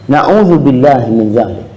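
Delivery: ordinary delivery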